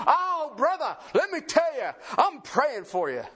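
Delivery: lightly put-on pious sympathy, starting high and settling; mock-pious well-wisher. Churchgoer offering a brother prayers instead of help, mock-pious. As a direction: imitate someone piously promising prayers.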